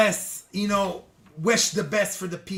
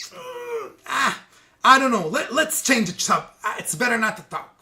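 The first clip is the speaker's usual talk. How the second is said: acted awkward sidestepping; evasive hedging; 4 semitones higher than usual. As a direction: hem and haw, mock-reluctant. Acting out dodging a question.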